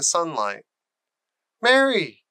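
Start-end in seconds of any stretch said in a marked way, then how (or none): 1.6-2.2 much higher joyful call; crying out. Acted. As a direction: call out their names in delight. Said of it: "he cried".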